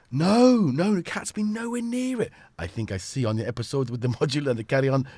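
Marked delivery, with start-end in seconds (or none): 0.1-2.3 high, hammed-up accent impression; badly faked foreign accent, pitched right up; Manu's accented voice. Streamer mimicking a friend chatting about the cat, high put-on accent. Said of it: "trying to actually get Manu's actual voice".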